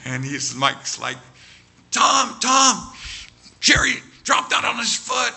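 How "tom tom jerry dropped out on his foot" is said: high, loud panicked call; acted emergency alert; urgent alarm. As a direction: call out news of an accident. Mike urgently alerts Tom to injury.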